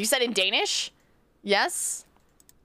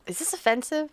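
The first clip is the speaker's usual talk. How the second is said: ordinary talk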